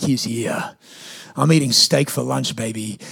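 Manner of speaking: low, soft, self-satisfied aside; quiet triumph. Retold or imitated. Smug relief as lunch host appears.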